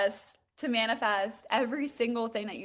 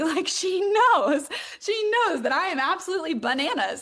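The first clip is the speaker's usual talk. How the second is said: laughing through the words, higher and louder; 6 semitones higher, 4 dB louder than usual. Real, not acted. Telling viewers her mom knows, laughing. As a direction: giggle it out, amused at herself.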